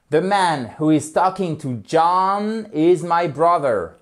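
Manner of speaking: slow, clear example sentence; slow English example; slow model sentence. Shown as a demonstration. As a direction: read the example slowly for learners. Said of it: "Donc, regardez".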